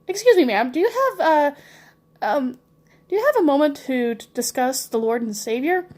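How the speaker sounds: a hint of a nervous missionary; polite missionary. Voicing the Jehovah's Witness at door.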